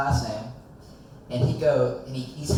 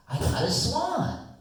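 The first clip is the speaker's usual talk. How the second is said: slow reveal; 11 semitones higher, slower than usual. Retold or imitated.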